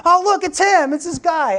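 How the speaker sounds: high, loud excited outburst; imitating starstruck fan. Tourist in Hollywood spotting a movie star, mock starstruck. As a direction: spot a celebrity and blurt it out.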